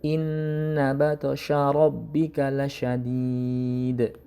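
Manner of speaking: slow, drawn-out recitation; teacher reciting a verse as a model; Quran recitation. Shown as a demonstration. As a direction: chant the verse slowly with care. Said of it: "Contohnya di ayat kedua belas".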